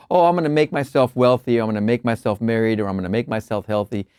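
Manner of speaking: quick, tossed-off imitation of selfish planning; mock self-serving boast. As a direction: reel it off dismissively, sinking as it goes. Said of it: "gonna get into this and go".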